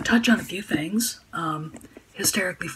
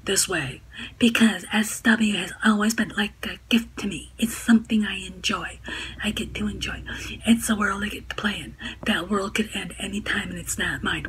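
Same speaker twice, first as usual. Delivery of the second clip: snarky hag voice; 3 semitones higher than usual. Retold or imitated. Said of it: "Snarky feminazi, hag voice".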